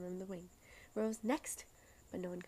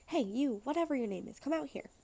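louder, higher call to someone shut in a box; mock calling out; 4 semitones higher, 5 dB louder than usual. Imagined stranger calling someone out of a box, loud call. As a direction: bang on the lid and holler them out.

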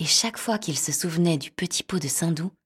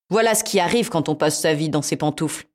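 cat voice; 4 dB louder than usual. Acted. Cat voiced in fairy tale.

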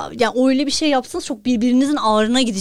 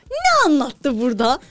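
incredulous; 3 semitones higher, 6 dB louder, slower than usual. Acted. Mock outrage at the motto.

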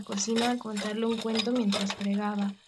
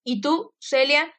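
firm commands; 4 dB louder than usual. Acted. Father gives orders to maid.

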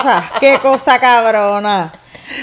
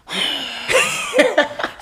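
mock exasperated sighing; put-on huff in bed; imitated huffy breathing; 9 semitones higher, 7 dB quieter than usual. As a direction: imitate a partner's huffing breath. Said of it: "así yo respiro".

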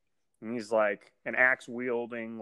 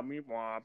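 a soft, deflated meep-womp like a sad trombone; trombone noise; 9 dB quieter than usual. Retold or imitated. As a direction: imitate a sad trombone, quietly. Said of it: "you know, trombone noise".

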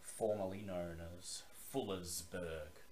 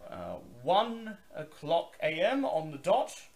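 higher, louder gruff gatekeeper; gruff male voice; 9 semitones higher, 6 dB louder than usual. Acted. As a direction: bark it like a gruff guard. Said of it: "the voice says".

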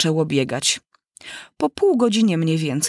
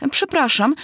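polite; 8 semitones higher than usual. Acted. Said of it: "odrzekła mysz grzecznie".

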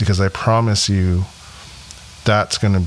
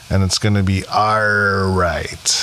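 whispering. Real, not acted. Comforting close to the episode.

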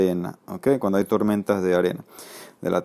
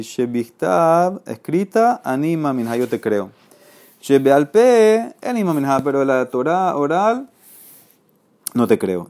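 bargaining convert; 4 semitones higher than usual. Acted.

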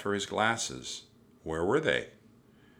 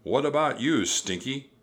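raised, loud pirate captain's call; roaring; 7 semitones higher, 5 dB louder than usual. A narrator's reading. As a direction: roar the question up at a crewman. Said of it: "Captain Bones roared".

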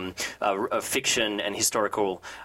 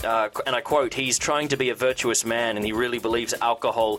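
news read. Acted. News and gossip segment read.

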